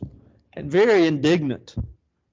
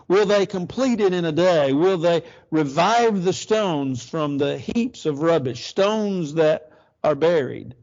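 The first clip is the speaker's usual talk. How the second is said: mocking ridicule; 2 semitones higher than usual. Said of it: "look at his ridicule".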